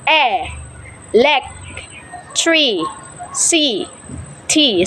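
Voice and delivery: "e", "lec", "tree", "c", "t" said one by one with pauses; syllables split. Shown as a demonstration. Teacher having learners observe their mouth per syllable.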